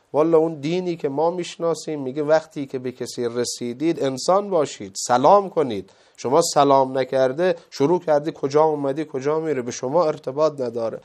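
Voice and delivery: mildly calm, retold reproof. Old man reproves strangers who didn't greet him, calm voice. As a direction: correct them without raising your voice. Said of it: "با صدای آرام گفت".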